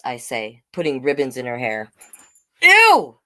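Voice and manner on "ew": high, loud grossed-out ew; disgusted ew. Acted. Toddler pulling ribbons out, loud disgusted ew. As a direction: push it away with disgust.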